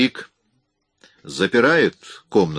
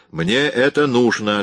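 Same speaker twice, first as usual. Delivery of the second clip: curt; 5 semitones higher, 3 dB louder than usual. Acted. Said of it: "отрезал Уин".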